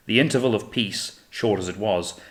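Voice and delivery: ordinary delivery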